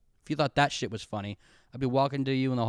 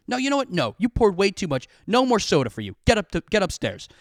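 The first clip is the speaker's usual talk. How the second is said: dad's stern scolding; 6 semitones higher, 4 dB louder than usual. Retold or imitated. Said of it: "and goes".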